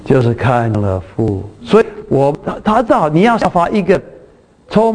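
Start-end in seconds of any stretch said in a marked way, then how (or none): 0.1-1.4 quoting Jesus slowly. Retold or imitated. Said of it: "可是耶稣说，".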